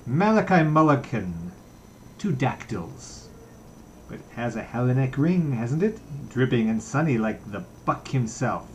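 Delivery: playful boasting to a friend; gay voice. Acted. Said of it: "Buck Mulligan's gay voice went on".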